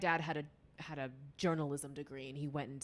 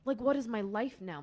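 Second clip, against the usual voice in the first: louder, higher, dismayed outburst; mock panic; 6 semitones higher, 9 dB louder than usual. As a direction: act out realizing it has all fallen apart. Acted reaction to failing.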